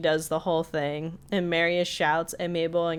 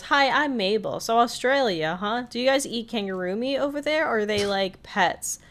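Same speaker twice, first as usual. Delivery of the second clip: eager Mabel; 5 semitones higher than usual.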